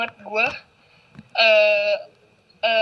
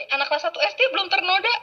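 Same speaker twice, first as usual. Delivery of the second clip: high, quick laughing line; 7 semitones higher, faster than usual. Real, not acted. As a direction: giggle through it. Bercanda sambil tertawa. (sambil tertawa)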